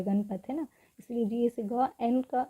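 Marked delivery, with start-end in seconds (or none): 0.0-0.4 गणपत said quickly, no vowel after ण; quick pronunciation. Shown as a demonstration. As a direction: run ण straight into पत in गणपत. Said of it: "उच्चारण इसको बहुत जल्दी हो रहा है". (गणपत जल्दी से, ण में अ के बिना)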